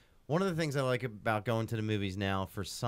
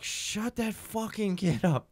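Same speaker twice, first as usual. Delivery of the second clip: mock scream; 8 semitones higher, much slower than usual. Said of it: "some lady just screams at him".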